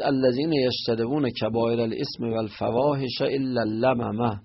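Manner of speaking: recited in a chanting reading voice; verse recited from the Quran; Quran recitation. Acted. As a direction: intone the verse like scripture.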